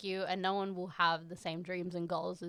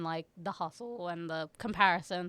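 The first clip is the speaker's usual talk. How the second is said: voice cracking; 2 semitones lower than usual. Real, not acted. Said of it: "Sorry, my voice cracked".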